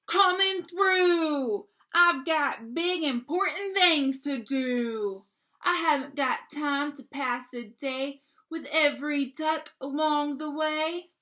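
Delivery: loud, rude bossy truck voice; loud impatient yelling truck. Acted. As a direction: shout it like a bully pushing past. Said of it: "he's yelling at them".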